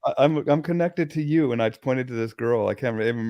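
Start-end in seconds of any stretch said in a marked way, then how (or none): 0.1-1.5 stammering, higher-pitched re-enactment; acted-out flustered realization; retold surprise. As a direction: stumble over it in mock shock. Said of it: "I was just so surprised".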